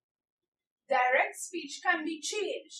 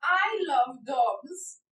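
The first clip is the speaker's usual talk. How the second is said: slow example read; 4 dB louder, much slower than usual. Shown as a demonstration. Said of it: "I will show you this with the first example".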